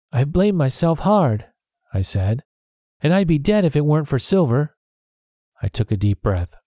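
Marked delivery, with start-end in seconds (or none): 0.1-1.5 slow, higher voice with a touch of tears; a mild hint of weeping, slowed; weeping lightly. A narrator's reading. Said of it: "I began to weep". 3.0-4.7 a touch of tears. A narrator's reading. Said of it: "I began to weep".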